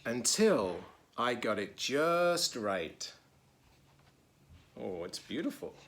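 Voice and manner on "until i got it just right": put-on reading to children. A narrator's reading. Teacher reading a picture book to children, lively. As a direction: read it brightly to the kids.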